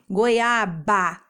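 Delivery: GOIABA in pieces, goi-a-ba; syllable by syllable. Shown as a demonstration. Teacher helping children notice syllables, GOIABA in drawn-out pieces. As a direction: let each syllable of GOIABA stand out. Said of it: "pode perceber as sílabas".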